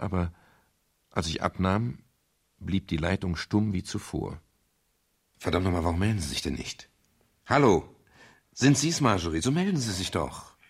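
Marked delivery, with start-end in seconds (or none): 5.4-10.6 fast, irritated demand into the phone; impatient anger. Acted. Detective barking into a silent phone line, impatient anger. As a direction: snap at the silent caller. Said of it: "Warst so wütend".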